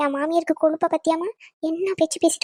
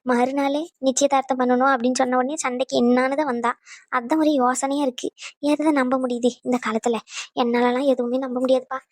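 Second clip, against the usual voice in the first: lower-pitched, doubtful grumbling; sceptical aside; 4 semitones lower than usual. Acted. Relative doubts the woman's change of heart, low sceptical aside. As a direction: air your disbelief in a low register.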